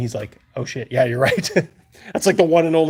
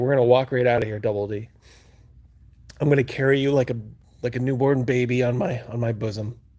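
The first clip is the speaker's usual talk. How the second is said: mock totally composed, unruffled, calm, reassuring voice. Retelling what Rogan said while they were trapped: imitating Rogan's calm voice. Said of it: "he was just so calm".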